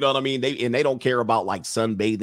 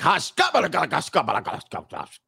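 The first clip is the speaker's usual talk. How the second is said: harsh throaty gibberish imitating Swedish; mock Swedish speech; 3 semitones higher, slower than usual. Comic imitating Swedish women talking, mock guttural Swedish. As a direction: hack out fake Swedish from the throat. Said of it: "they got the deep voices too".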